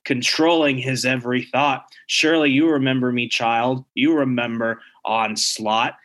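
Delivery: a hint of a menacing demon, lightly voiced; mildly sinister, slowing down at the end; evil demonic voice. Onslaught inside the father taunting the child, lightly demonic. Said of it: "has the same evil demonic voice".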